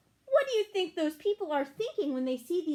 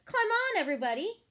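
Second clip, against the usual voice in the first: calling out loud and high to the animals; duck shouting; 9 semitones higher, 4 dB louder, faster than usual. A narrator's reading. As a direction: shout the invitation brightly. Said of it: "Duck shouted".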